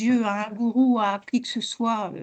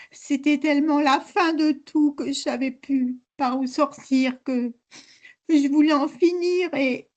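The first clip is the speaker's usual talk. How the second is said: talking through real tears; tearful; 2 semitones higher than usual. Real, not acted. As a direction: let it out while crying, haltingly. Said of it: "vous pouvez pleurer, pleurez".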